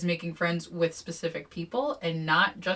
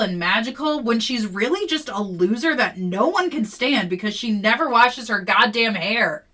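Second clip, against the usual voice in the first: angry outburst; 4 semitones higher, 7 dB louder than usual. Acted. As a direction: spit the insults back at her. Sky fires back in quarrel.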